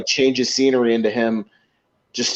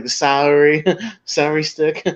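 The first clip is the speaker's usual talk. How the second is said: put-on Serge's accent; 4 semitones higher than usual. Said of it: "the way that he does the accent".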